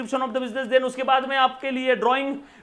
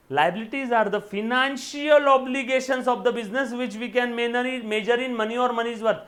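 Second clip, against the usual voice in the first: each word spaced out for notes; slow classroom dictation; much slower than usual. Acted. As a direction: read it slowly so students can write. Dictating a definition slowly.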